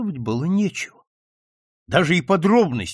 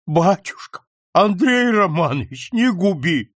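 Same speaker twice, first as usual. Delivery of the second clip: pleading; 5 semitones higher, 4 dB louder than usual. A narrator's reading. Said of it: "взмолился вдруг Ферапонтов".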